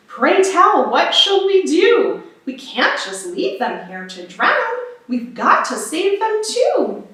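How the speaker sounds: a ship's captain asking anxiously; a hint of a fretful old captain. Captain asks what to do.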